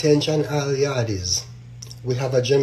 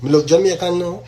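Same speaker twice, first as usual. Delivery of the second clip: trying on a look; 3 semitones higher, 3 dB louder than usual. Pretend.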